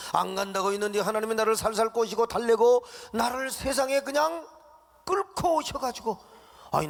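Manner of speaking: 하나님께 따지는 모세; Moses protesting. Acted. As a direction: argue hotly with God. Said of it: "모세가 하나님 앞에 지금 따지는 겁니다".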